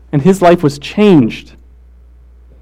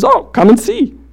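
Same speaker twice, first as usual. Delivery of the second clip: Jesus voice; 5 semitones higher than usual. Retold or imitated. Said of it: "his response is".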